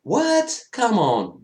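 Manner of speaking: very high pitched disbelief; incredulous what. Retold or imitated. Fan reacting to the reveal, high incredulous squeak. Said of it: "I was just like".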